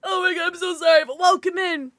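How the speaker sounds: high, loud, laughing embarrassment; laughing apology. Real, not acted. Streamer apologising for a botched name, laughing. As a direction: apologise through giggles.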